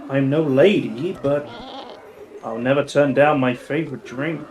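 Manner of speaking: purring, teasing femme fatale; sultry lady voice. Acted. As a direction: play the flirty bar regular. Sultry bar lady speaks.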